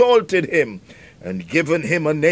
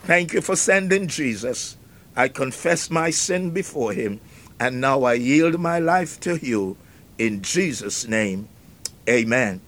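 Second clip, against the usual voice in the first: prayer; 3 semitones lower, 3 dB quieter than usual. Pretend. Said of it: "You can say".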